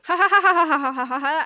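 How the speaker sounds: loud, rapid-fire fake guffaw; mock hysterical laughing. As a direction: laugh uproariously at someone, hammed up. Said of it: "Deadpool keeps laughing at".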